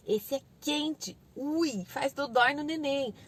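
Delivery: put-on very slow, simple baby talk; slow, careful parent voice; toddler-directed warning. Shown as a demonstration. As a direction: show a small child that hot hurts. Models warning toddler about oven.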